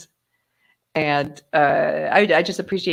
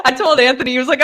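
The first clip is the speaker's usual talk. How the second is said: normal talking voice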